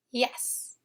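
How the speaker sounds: yes whispered softly as a sound model. Shown as a demonstration. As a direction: breathe the word yes. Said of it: "the Y sound in yes".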